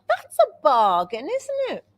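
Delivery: slow, smug self-congratulation, tilting up at the end; mock pleased bargain hunter. Telling friends about the online top, slow and smug. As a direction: play her past self delighted with a bargain. Quoting own thought buying top.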